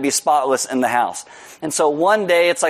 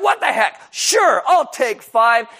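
reckless defiance; 7 semitones higher, slower than usual. Retold or imitated. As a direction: shrug it off recklessly.

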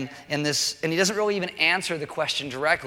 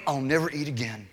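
grumpy. Retold or imitated. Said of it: "I lash out and I get angry".

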